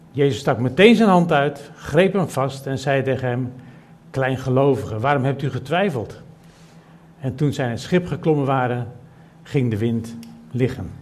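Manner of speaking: plechtig en luider voorgelezen Schriftgedeelte; Bijbellezing. Acted. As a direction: lees de tekst voor als voor een gemeente. Leest Bijbelgedeelte voor. (voorgedragen Bijbeltekst)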